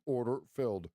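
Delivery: lightly voiced automated order voice; mock broker voice. Narrating the tape for viewers, lightly robotic. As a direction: read it like the platform's voice. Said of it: "I was narrating the tape".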